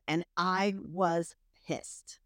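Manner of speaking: slow, warped demon growl drawn out; crazy demonic voice. Retold or imitated. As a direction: drag each word out like something possessed. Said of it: "in this crazy demonic voice".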